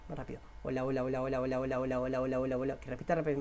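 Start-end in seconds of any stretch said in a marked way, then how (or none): 0.6-2.8 quick repeated hola; hola, hola, fast like a drumbeat. Shown as a demonstration. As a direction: rattle off the hola rapidly. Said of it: "hagan ese hola más rápido".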